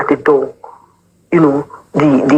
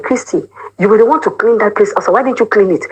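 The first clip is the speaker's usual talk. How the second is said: mock scolding; 6 semitones higher than usual. Church members scolding her.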